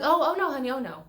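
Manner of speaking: condescending "oh no, honey", then a very slow loud repeat; patronizing tourist spelling the question out slowly; hammed-up American tourist talking down to the driver; mock entitled tourist. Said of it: "They're like".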